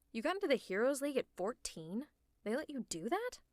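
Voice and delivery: taken aback; incredulous. Acted. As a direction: question it in startled disbelief. Shocked at hero's recruitment age.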